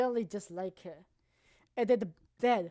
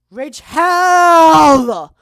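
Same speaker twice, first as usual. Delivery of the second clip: a huge, higher roar of the name; furious shout; 6 semitones higher, 22 dB louder than usual. Real, not acted. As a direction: scream Rage Hell out in real fury. Yelling the worst girl's name.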